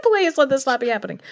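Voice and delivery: very high squealed plea through laughter; laughing mock plea. Old woman praying at the sight of a ghost, hammed-up squeal. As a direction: squeal the prayer, half laughing.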